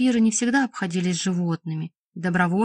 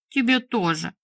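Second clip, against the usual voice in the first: mildly cross retort; snapping back; 3 semitones higher than usual. A narrator's reading. Boy answering his scolding father, snappish. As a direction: toss it back defiantly. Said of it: "огрызнулся мальчик".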